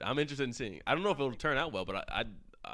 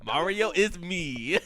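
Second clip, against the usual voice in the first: mock actor take; much slower than usual. Imagined second take of catchphrase.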